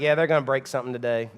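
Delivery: fast, low resigned mutter; resigned grumble. Retold or imitated. Tired dad about his boys, resigned and low. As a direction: toss it off, expecting the worst. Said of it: "I'm like".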